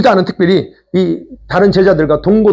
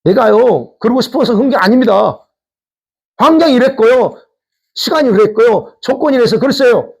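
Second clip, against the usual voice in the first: higher-pitched, self-justifying protest; acted defensive whine, pitched up; making excuses; 4 semitones higher than usual. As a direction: plead your excuses one after another. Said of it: "이유만 된-, 주장합니다".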